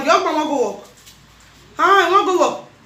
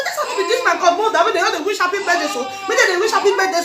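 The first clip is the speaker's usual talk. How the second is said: laughing through the words; half-laughing mock complaint; 4 semitones higher, faster than usual. She retells her own complaint while laughing.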